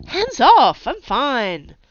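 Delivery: high, loud yelp, forcing it down; pained yelp turned into protest. A narrator's reading. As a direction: snap out in pain, covering it. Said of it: "the words slurred into a yelp".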